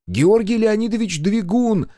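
high, loud desperate call into the dark. A narrator's reading. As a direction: shout his full name, high and loud. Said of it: "позвала я".

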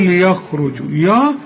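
"يخرج يا" with a heavy ي; wrong heavy ي. Shown as a demonstration. Teacher imitates the student's wrong heavy ي. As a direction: show the student's mistake. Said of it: "لأنك بتقول".

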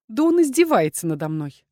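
ordinary delivery, nothing marked

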